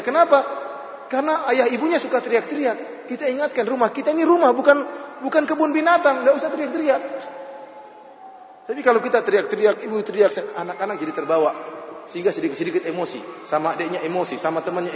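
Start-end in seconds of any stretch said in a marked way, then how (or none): 0.0-10.3 high, ringing sermon voice driving the point home; fiery preaching. Acted. Preacher warning parents against yelling at home, fiery preaching. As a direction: preach it out, pitched way up to stir the crowd.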